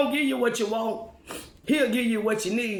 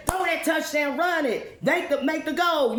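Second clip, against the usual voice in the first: excited cheering; 7 semitones higher than usual. Pretend. Cheering on ball players.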